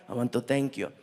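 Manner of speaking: deep, composed Arab prince voice; gracious prince. Retold or imitated. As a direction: imitate a courteous royal giving thanks. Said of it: "he was so nice".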